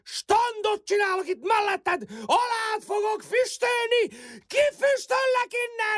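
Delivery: angry threat. Acted. Rival threatens to drive him away.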